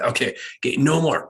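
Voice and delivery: firmer, rising annoyance; getting irritated. Retold or imitated. Parent to a child leaving bed, irritated. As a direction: patience wearing thin. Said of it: "we start getting irritated".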